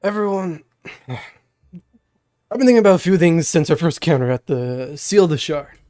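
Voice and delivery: lightly voiced deep old mentor; a hint of a groggy old man. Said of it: "my cringe Rise voice".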